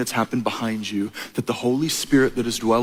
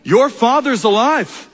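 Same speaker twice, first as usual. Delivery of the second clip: higher, slow sage voice; wise old sage; 8 semitones higher, 3 dB louder, slower than usual. Retold or imitated. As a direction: draw it out high like an old mystic. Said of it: "that old wise sage Rafiki ... says".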